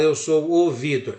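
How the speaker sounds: "o" before Vitor punched and held; stress on O. Shown as a demonstration. Teacher shows the article English leaves out, stressed O. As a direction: hit the article "o" in "eu sou o Vitor". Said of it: "Em inglês não precisa".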